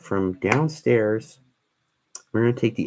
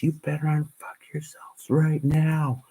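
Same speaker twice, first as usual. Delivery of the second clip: imitating a drill sergeant screaming, higher and slow; sergeant's scream; 7 semitones higher, slower than usual. Retelling the sergeant yelling at the class, mock scream. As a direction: bark it like a sergeant chewing out the platoon. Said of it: "He screamed at us".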